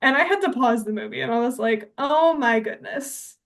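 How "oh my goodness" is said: drawn-out, higher "can't believe it" reaction; appalled, slow-motion astonishment; shocked disbelief. Retold or imitated. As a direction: retell your stunned reaction, stretching it out. Retelling her shocked reaction to movie.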